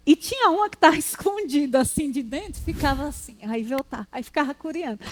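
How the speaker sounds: whisper-like storytelling hush; hushed aside. Real, not acted. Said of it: "describes hiding girl peeking". (sussurro de quem conta um segredo)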